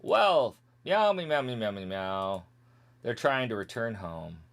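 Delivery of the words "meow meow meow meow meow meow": meowing gibberish in place of the dialogue; mock cat-people chatter. Skipping cat people's dialogue, mock meowing. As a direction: play the cat folk with light meows. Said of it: "Now we have the cat people".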